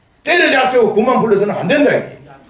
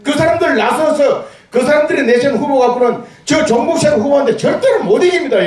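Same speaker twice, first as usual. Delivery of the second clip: rousing shout; 5 semitones higher than usual. Real, not acted. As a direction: hammer the warning home. Rally speech, shouted warning.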